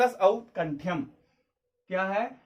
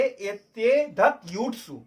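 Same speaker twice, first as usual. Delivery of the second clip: slow recitation; much slower than usual. Shown as a demonstration. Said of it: "ये सूत्र है".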